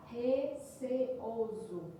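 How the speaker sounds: RECEOSO stretched very slowly, each syllable set apart. Shown as a demonstration. Teacher showing the syllable division to students, RECEOSO slow, syllable by syllable. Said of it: "Percebam a divisão silábica de receoso".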